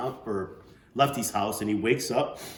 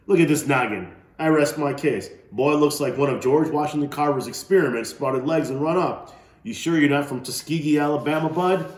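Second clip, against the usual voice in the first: put-on teasing old man; 6 semitones higher, 8 dB louder than usual. Old man teasing Bud's head.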